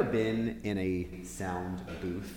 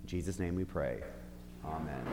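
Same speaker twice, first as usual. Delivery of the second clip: prayer. Acted. Leads an opening prayer.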